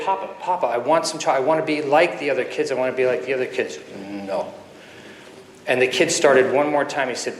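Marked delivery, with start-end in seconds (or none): 0.0-3.8 put-on pleading boy. Boy begging his father a second time, lightly imitated pleading. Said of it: "And the boy said". 4.1-4.5 low, imitated fatherly refusal; lightly voiced stern papa shutting it down; powerful, succinct. Intimidating father refusing his pleading son, low and succinct. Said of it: "the father said very powerfully and succinctly".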